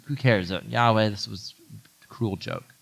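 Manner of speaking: a mild mock sulk trailing off quietly; fed-up dismissal. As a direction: sound done with it all. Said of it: "He's over it".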